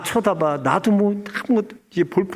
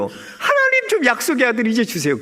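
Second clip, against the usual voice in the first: Abraham praying; 4 semitones higher than usual. Retold or imitated. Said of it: "제일 기대하고 바라는 기도 제목".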